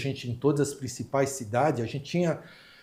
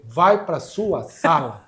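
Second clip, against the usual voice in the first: ordem firme; 2 semitones higher, 8 dB louder, much slower than usual. Retold or imitated. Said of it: "Eu falei".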